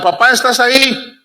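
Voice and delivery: high-pitched call to papá; child calling down into a pit, mildly voiced; retold child's call. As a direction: imitate a boy calling out. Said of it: "el niño le gritaba".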